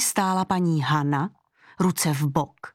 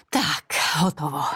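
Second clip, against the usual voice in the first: sigh of relief; 4 semitones lower than usual. A narrator's reading. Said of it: "oddychla si paní Hana".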